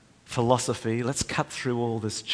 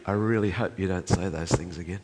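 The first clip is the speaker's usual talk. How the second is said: soft loving; 3 semitones lower than usual. Retold or imitated. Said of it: "speaking softly and lovingly in his ear".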